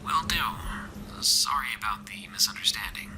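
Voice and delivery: whispered radio voice; a hostile voice crackling over radio. A narrator's reading. Stranger on the radio telling them off.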